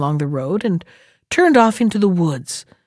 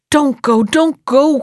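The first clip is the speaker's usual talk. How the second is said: high, louder urgent plea; cried out; 6 semitones higher, 4 dB louder, slower than usual. Acted. Boy pleading with the bear to stay home, raised urgent voice. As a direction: beg him not to go. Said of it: "cried the boy".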